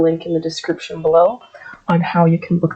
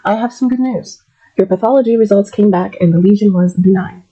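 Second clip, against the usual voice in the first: breaking good news. Shown as a demonstration. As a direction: deliver good news gently to a patient. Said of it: "Let's say that again".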